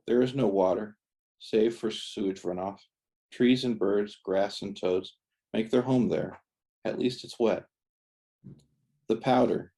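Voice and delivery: measured, deliberate poetry-reading cadence; poem reading. Acted. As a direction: read it as verse, pausing after each line. Reads own poem aloud.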